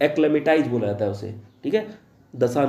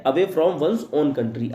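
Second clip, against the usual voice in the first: slow dictation; much slower than usual. Shown as a demonstration. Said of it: "teacher repeats the definition".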